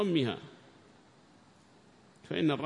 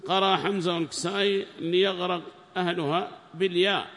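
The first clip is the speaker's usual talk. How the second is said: reading the book aloud, raised and formal; loud text reading; 6 semitones higher, 6 dB louder than usual. Acted. Student reads the tafsir aloud to the sheikh, raised and formal. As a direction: read the passage out to the class, loudly.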